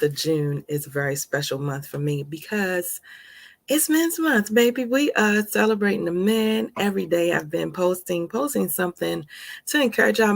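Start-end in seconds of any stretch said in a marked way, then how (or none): 3.7-6.7 excited announcement. Real, not acted. Announcing theme with flair.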